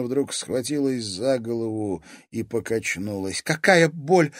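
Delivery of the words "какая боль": higher and louder, gasped out in pain. A narrator's reading. Seer struck by visions, gasping in pain. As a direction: push the words out on a pained breath. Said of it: "выдохнула она".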